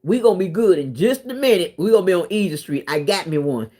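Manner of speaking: a hint of a smug man crowing about his catch; lightly voiced, pleased with himself; mild mock brag about easy money; mock gloating scammer. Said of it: "He thought he".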